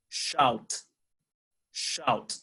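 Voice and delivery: careful Shout, T clearly heard; final T sounded. Shown as a demonstration. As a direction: Shout with a crisp final T released. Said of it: "Remember the letter T".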